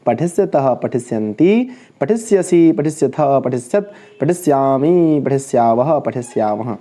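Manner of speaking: rhythmic verb drill in threes; model recitation. Shown as a demonstration. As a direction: chant each form, dropping at the group's end. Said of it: "तो हम ऐसे बोलेंगे".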